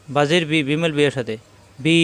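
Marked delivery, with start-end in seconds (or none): 1.8-2.0 "বি" with a held ee vowel; sustained vowel on "বি"; one-alif elongation. Shown as a demonstration. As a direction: stretch the ee in "বি" for two beats. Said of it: "এক আলিফ টান".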